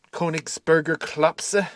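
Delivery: slow, drawn-out "Königsberger Klopse"; "Königsberger Klopse" stretched out with care; careful German pronunciation. Shown as a demonstration. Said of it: "I think that's how you pronounce it".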